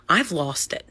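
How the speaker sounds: breathy unvoiced whisper; whispered admission. Real, not acted. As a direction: let it out as a whisper. Whispered confession.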